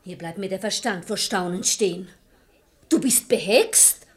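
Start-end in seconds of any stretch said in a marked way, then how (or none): 2.9-4.1 exasperated reproach. Acted. Wife scolds blind husband.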